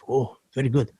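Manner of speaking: soft, lightly put-on Arab accent; imitated Arab accent. Driver approving of the mansion, imitated Arab accent. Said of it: "I'm gonna drop the, the accent now".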